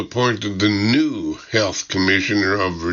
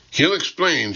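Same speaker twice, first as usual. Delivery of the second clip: higher-pitched British cut-in; interrupting British secretary; 7 semitones higher than usual. A narrator's reading. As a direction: cut in officiously with a light British accent. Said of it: "she interrupts".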